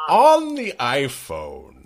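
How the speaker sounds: high, slow geezer voice; old man voice. Pretend. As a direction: play the doddering old man. Joins the old man bit.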